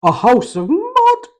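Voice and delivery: high, eager little pig; excited. Acted. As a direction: blurt it out with glee. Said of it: "replied Bobble really excitedly".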